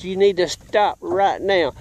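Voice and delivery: lightly imitated cop's slow order; police officer command. Child ordering bike thief to stop, mild police-officer imitation. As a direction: slowly order a halt, like a cop. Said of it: "just like one of them police officers did".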